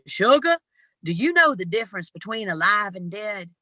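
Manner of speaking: lightly voiced Southern dad, gentle but firm; big Southern voice. Southern dad sits his four-year-old down, lightly Southern. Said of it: "in that big voice, that Southern, Southern voice".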